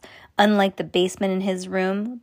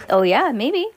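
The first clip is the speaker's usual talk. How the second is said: usual speaking voice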